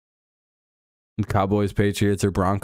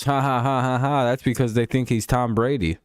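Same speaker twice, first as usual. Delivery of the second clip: mock laughing; 2 semitones higher than usual. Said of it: "Everyone laughs and says".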